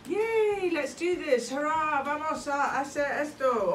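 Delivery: high, loud excited cheer; cheering kids. Acted. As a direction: whoop it up like an eager child. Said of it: "children cheer setting off".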